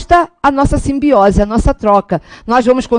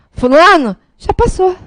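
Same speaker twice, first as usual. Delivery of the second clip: higher-pitched imitation of a comparing aunt; tia que compara; 5 semitones higher than usual. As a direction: play the aunt pointedly comparing you with others. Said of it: "aquela tia que diz assim". (imitação de tia comparando, voz mais aguda)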